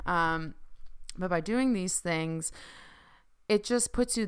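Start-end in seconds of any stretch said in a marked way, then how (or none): 1.2-4.3 talking around clear aligners. Real, not acted. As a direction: speak with aligners in the mouth. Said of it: "sorry, I have my aligners in again".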